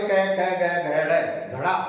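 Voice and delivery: ग, घ, ड़ drawn out slowly one by one; slow letter-by-letter drill; slow recitation. Shown as a demonstration. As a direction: spell the row out slowly for the class. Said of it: "अब ड़ बोल देते हैं अपन अपनी भाषा में".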